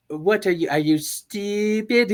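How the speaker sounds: a scornful little genius mocking someone; Dexter voice. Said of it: "That's definitely Dexter".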